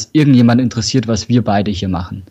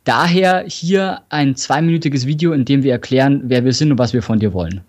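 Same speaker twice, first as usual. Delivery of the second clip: dictating. Retold or imitated. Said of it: "ich mach's jetzt mal zum Beispiel".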